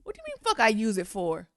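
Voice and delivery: incredulous. Real, not acted. Mocking agent's question.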